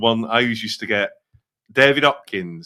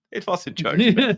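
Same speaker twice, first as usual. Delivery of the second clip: laughing; 10 semitones higher than usual. Real, not acted. Laughing denial of the guess.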